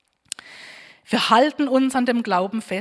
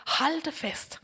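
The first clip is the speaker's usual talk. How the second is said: "Halte fest" higher and much softer, pressed and intimate; intense hush; 4 semitones higher, 8 dB quieter than usual. Shown as a demonstration. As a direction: breathe "Halte fest" as a personal charge to each listener. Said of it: "die gelten für uns heute". ("Halte fest" leise und eindringlich)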